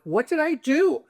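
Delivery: high-pitched mock bewilderment; protesting. Screamed at on the plane, high retold protest. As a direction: plead innocence, voice jumping way up.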